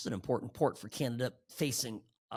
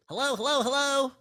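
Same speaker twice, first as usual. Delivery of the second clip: mock Carney calling; 8 dB louder than usual.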